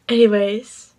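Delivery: energetic shout-talk; loud excited. Real, not acted. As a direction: announce it loud and pumped. Hyped after finishing.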